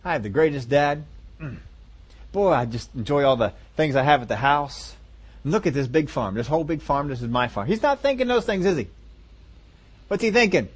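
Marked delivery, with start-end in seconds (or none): 0.0-7.7 a hint of a dreamy, lower musing; contented son's thoughts. Preacher voicing the son's grateful thoughts, low and soft. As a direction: muse softly over your blessings. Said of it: "thinking all kinds of good thoughts".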